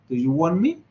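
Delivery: "want" said "won", no T before "me"; silent T in want. Shown as a demonstration. Teacher answering student, "want" with silent T. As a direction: drop the T, say "won me". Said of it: "en el primer caso sería".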